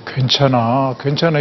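low, gentle reassuring words; soothing reassurance. Shown as a demonstration. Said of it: "이렇게".

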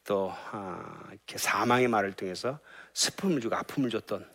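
soft, earnest sermon close; closing prayerful appeal. Acted. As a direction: urge the flock tenderly. Closing exhortation. (성도들에게 부드럽게 간곡히 권면하는 설교 마무리)

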